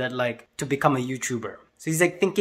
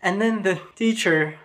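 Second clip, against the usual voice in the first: ordinary delivery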